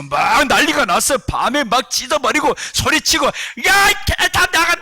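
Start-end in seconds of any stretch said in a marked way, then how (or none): 3.3-4.8 possessed yelling. Retold or imitated. Pastor retelling a possessed church member's screaming at night, high mock yell. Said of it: "막, 막 이렇게 소리 엄청 치고".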